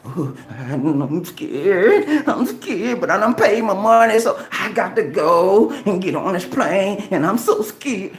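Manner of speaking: whiny, drawn-out mock fear; imitating a frightened passenger, hammed-up whimpering; mock scared. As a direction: play a nervous flyer, hammed up.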